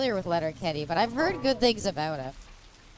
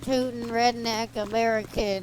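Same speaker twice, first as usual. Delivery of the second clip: lightly mocked American redneck accent. Streamer imitating American rednecks for chat, lightly put-on redneck accent. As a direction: do a hint of a caricature American redneck. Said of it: "they talk a bit differently".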